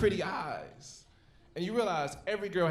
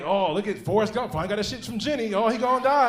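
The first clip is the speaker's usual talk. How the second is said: mocking meme voice; 5 semitones higher, 9 dB louder than usual.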